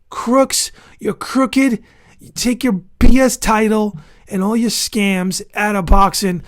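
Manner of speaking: real anger at the boxing bodies; angry rant. Real, not acted. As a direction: call them out to their faces. Ranting at boxing officials.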